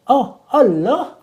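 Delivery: Allah diucapkan "oloh", pelan dan memanjang; variasi dialek. Shown as a demonstration. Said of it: "pengucapannya dalam bahasa Indonesia terkadang bervariasi". (ucapan dialek, "Allah" jadi "oloh")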